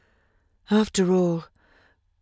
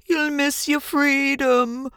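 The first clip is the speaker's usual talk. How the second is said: higher, slow honking goose; 8 semitones higher, slower than usual. A narrator's reading. Goose honking at Wilbur, higher and slow. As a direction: honk it like a goose. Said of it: "honked the goose".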